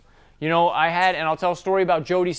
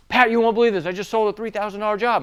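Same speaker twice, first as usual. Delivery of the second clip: excited news; 5 semitones higher than usual. Retold or imitated. Salesman telling his boss about his first big sale, excited.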